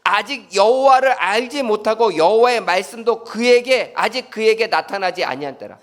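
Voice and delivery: reading verse seven to the congregation; scripture reading. Shown as a demonstration. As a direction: read the verse aloud with weight. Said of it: "제가 봉독해 드릴게요".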